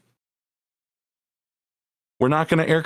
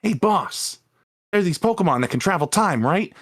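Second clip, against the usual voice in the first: lightly voiced eager gangster henchman; a hint of an old-timey mob underling; 1930s minion voice; 4 semitones higher than usual. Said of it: "minion guy's got that, like, nineteen thirties minion voice".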